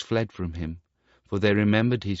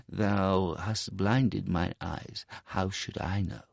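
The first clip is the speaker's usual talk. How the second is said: slow, softer reproach; bitter mole; 5 dB quieter, slower than usual. Acted. Mole reproaches the Star Child, bitter and slow. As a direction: answer him with quiet reproach.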